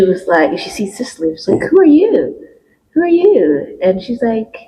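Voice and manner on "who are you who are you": high indignant voice. Retold or imitated. Gwendolyn confronting Cicely, high pitch.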